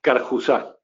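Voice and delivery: Carjusá, stressed on the final SÁ; Carjusá as "kar-hoo-SAH"; surname pronunciation demo. Shown as a demonstration. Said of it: "cómo se pronuncia tu".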